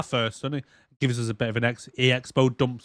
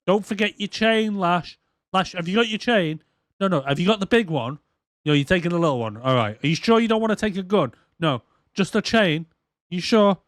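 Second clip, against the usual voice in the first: mock concerned nagging, higher pitch; fussing send-off; 5 semitones higher than usual. Gina checking Lash has the chain, fussing. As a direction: fuss over them with anxious little questions.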